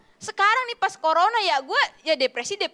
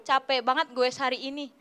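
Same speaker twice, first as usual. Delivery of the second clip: lower, softened weary boast; affected tiredness; 4 semitones lower, 4 dB quieter than usual. Retold or imitated. Cyclist posting an Insta story, mock exhausted. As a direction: act worn out for the camera. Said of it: "gaya sengabet bikin Insta story".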